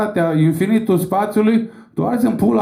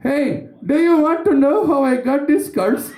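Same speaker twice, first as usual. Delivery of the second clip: higher, slow mock Joker; Joker impression; 8 semitones higher, slower than usual. Comic doing the Joker taunting Indian Batman. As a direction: drawl it like a creepy Joker. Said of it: "Vine Joker".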